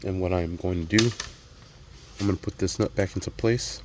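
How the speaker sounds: talking with a mouthful of apple; eating an apple. Real, not acted. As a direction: chew and talk through a bite of apple. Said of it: "Sorry, I'm eating an apple right now".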